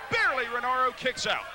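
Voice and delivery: rising excitement on a near fall; excited shout. Real, not acted. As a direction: call the kickout with a burst.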